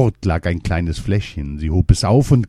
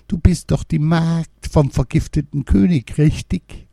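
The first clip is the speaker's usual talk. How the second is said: put-on high, odd old crone voice; old woman; 9 semitones higher than usual. A narrator's reading. Old woman recognizing the maid, crone voice. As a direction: ask knowingly like an old crone. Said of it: "Diese sprach".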